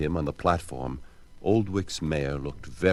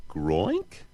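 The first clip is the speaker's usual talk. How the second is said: frog noise. Acted. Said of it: "asked the mayor".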